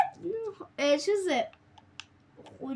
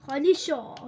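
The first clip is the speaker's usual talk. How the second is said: خالی شو said louder and firmer; louder command; 2 semitones lower, 4 dB louder than usual. Real, not acted. Gamer ordering his chest, repeating it louder. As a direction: push خالی شو out with more force.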